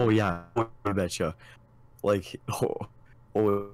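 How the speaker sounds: light mock-Minnesotan lilt; Minnesotan accent. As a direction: tease with a northern Minnesota accent. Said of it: "way up north in Minnesota to have an accent".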